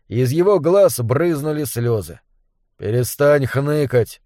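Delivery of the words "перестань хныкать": calm. Acted. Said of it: "спокойно сказал Зобер".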